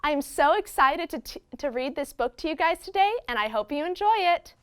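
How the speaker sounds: ventriloquist voice, lips kept still; talking with mouth closed. Shown as a demonstration. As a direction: talk without moving your lips. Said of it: "I can talk without moving my lips".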